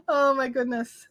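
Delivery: a real catch of tears in the voice; moved, holding back crying; tearful. Real, not acted. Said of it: "I'm not crying, you're crying".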